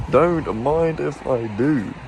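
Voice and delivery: slow, savouring every word; slow drawn-out. Shown as a demonstration. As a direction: stretch it out playfully.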